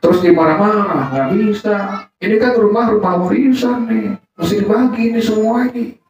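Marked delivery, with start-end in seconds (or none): 1.1-6.0 angry brother. Retold or imitated. Brother quarrels over the inheritance.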